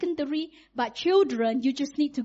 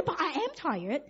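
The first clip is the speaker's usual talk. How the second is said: tired mom; 6 dB quieter than usual. Retold or imitated. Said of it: "But I say".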